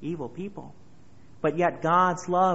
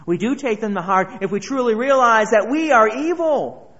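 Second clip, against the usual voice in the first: louder preaching; 5 semitones higher, 9 dB louder than usual. Acted. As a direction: build it up loud to "evil". Repeated phrase, second loud.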